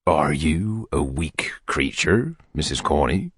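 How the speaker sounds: whispered, slow and close; intimate whisper. Acted. Beadle leaning in to the matron, whispering slowly. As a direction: breathe it to her confidentially. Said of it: "drawing his chair a little closer".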